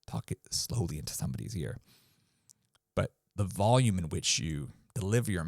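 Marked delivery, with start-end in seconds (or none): 0.1-1.8 quiet. Shown as a demonstration. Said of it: "bring it down".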